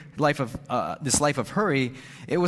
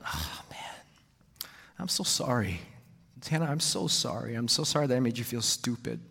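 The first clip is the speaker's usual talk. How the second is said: tender apology; 4 dB quieter than usual. Retold or imitated. Tender apology to his daughter.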